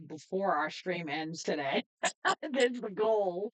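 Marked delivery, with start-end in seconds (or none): 2.0-3.5 chuckling through the words, slowed down; laughing. Real, not acted. Streamer laughing to his viewers about the goal, amused. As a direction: let a laugh carry the line.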